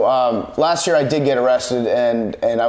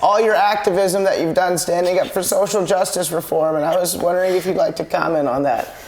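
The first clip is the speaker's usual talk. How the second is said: much higher, sugary reporter voice; high mock interviewer voice; 6 semitones higher than usual. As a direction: gush like an overeager fan reporter. Mock interviewer greeting a player.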